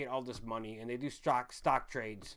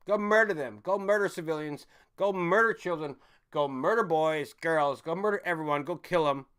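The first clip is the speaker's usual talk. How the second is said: louder barked commands, hammering murder; mock president's order; 3 semitones higher, 6 dB louder than usual. Imitating the president ordering troops to kill, angry mock command. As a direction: order them off like a callous commander. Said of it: "the president has the right nowadays to say".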